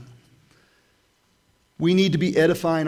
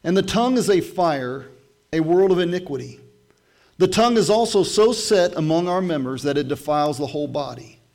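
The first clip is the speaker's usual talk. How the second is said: louder, raised scripture read; 4 dB louder than usual. Acted. Pastor reading James to his church, proclaiming. Reads scripture aloud with force.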